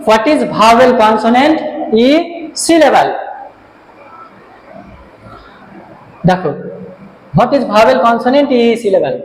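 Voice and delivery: very slow, words spaced out; slow dictation. Shown as a demonstration. Teacher reading the board question aloud for students, slow. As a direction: read out the question slowly as it is written. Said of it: "দেখো লিখলাম কি".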